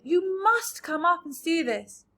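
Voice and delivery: urging the centipede up, shouting; excited shout. A narrator's reading. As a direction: beckon him up eagerly. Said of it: "they shouted".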